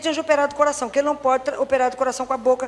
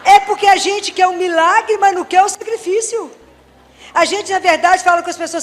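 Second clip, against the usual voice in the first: preaching rebuke; 4 semitones higher, 6 dB louder than usual. Real, not acted. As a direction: drive the point home from the pulpit.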